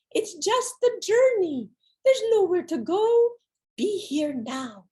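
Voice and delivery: high, hushed guiding voice that slows down; inner voice. Retold or imitated. The inner voice calms her as she sweats and feels sick. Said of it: "and it says".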